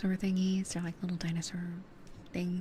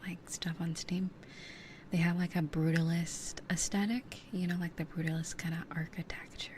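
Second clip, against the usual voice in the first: whispering. Real, not acted. ASMR whisper chat.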